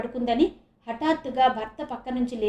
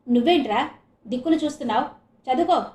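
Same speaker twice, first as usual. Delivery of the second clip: quick scolding shout; 4 dB louder, faster than usual. Acted. Mother yells at her son for staring around. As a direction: snap at the boy to study. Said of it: "అని అరిచి".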